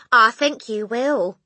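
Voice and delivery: loud, slow, high-pitched verdict; emphatic reply. A narrator's reading. Mother confirming husband's fear, loud emphatic reply. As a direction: say it loudly, drawn out.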